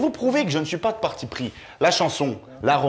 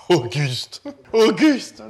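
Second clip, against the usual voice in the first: mock indignant; 4 dB louder, much slower than usual. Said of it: "mais je vous demande un peu".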